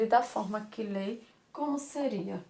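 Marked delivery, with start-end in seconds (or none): none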